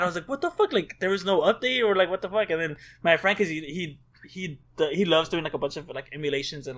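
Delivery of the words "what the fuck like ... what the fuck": high-pitched, mildly indignant outburst; retold exasperation, pitch leaping at the start; retold anger. At having missed the news, mock mad. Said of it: "And I was so mad".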